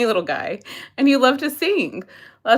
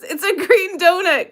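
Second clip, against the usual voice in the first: laughing; 4 semitones higher than usual. Real, not acted. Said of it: "they literally named what the picture is".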